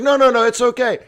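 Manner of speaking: high, loud breezy brush-off; mock casual no no no; laughing friend. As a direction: wave her off with a laugh.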